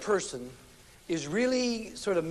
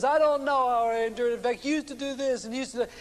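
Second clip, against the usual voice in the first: mock indignant complaint, higher and louder; higher, louder indignant wife; 5 semitones higher, 3 dB louder, faster than usual. Wife recounting husband to counselor, higher, louder indignant. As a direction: play the fed-up wife pouring it out, higher and louder.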